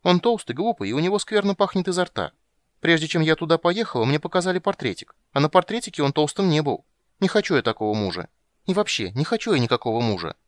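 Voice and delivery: put-on a girl protesting her betrothal; petulant high young princess; little girl complaining. A narrator's reading. Child Ciri complaining.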